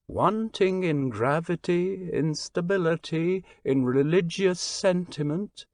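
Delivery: a lightly voiced stranger, grave and judging, a hint of foreign accent. Stranger judging France to the Englishman, lightly voiced and grave. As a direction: weigh each fault of France gravely, faintly foreign.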